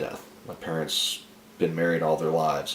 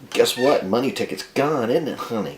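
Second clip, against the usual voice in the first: pointed, slightly raised mock sweetness; sarcastic gloating; 5 semitones higher, 3 dB louder than usual. Husband to wife about her money ticket, sarcastic jab. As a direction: needle her with a sarcastic question.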